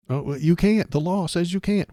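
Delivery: high, prissy mocking voice; mocking know-it-all. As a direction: mimic a smug expert. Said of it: "says the well-educated man".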